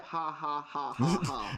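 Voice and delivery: low, deliberate "ha, ha" laugh; imitated laugh. Copying Bill's laugh from the letter, imitated laugh. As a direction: spell the laugh out in separate low beats. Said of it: "Even with the laugh".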